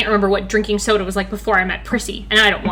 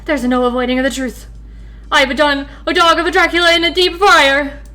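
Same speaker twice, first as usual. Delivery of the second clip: higher fry cook, lightly put on; hint of a nervous fry cook; lightly voiced fry cook; 4 semitones higher than usual. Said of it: "I should do different voices for him".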